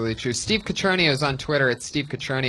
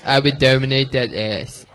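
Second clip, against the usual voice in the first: The speaker's accent impression. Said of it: "That's the best fucking accent in comedy".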